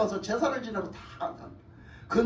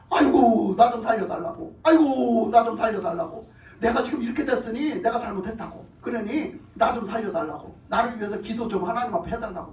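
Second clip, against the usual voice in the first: begging king; 3 semitones lower than usual. Acted. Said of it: "싹싹 빌어".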